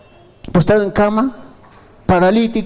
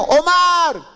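higher, drawn name call; 5 semitones higher than usual. Acted. Pastor calls another brother by name, calling out. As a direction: call to get someone's attention.

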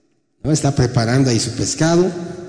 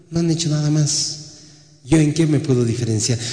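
depressed Elijah. Retold or imitated. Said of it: "¿Qué dijo Elías?".

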